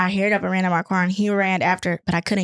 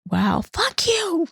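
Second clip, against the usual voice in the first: sarcastic retort; 9 semitones higher, much slower than usual. Retold or imitated. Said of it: "I was like".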